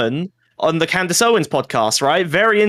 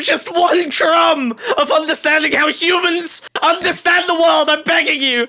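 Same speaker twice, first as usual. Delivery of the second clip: hammed-up wailing plea; 10 semitones higher, slower than usual. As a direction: wail the plea like you're desperate. Begging liberals for media strategy.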